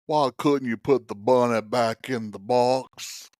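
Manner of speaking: slow, lightly hammed-up movie quote; a hint of a slow put-on movie character; movie line impression. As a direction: draw the movie line out slowly. Movie line quoted as co-host intro.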